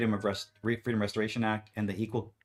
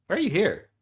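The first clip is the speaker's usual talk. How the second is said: irritated office worker; 8 semitones higher, 5 dB louder than usual. Pretend. Vice president voiced.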